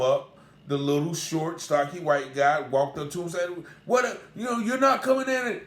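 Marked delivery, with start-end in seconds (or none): 3.9-5.6 higher, raised voice of a riled officer; retold angry bailiff. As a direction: snap it like an angry guard. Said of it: "he starts banging on the desk".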